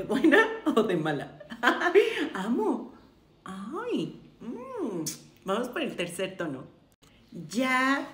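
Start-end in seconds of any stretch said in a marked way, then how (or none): 0.0-5.0 loud, giggly question that breaks into a laugh. Real, not acted. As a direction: crack up while asking. Joking question to viewers, breaks up laughing. (riéndose a carcajadas al preguntar)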